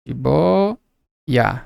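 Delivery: "Jiboia" spoken slowly, syllable by syllable; split into syllables. Shown as a demonstration. Teacher separating the syllables for students, slow and soft. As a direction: break "Jiboia" into ji-boi-a, softly. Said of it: "Separa assim".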